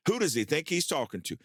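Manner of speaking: incredulous, wounded pride; indignant outburst. Retold or imitated. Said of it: "literally saying out loud".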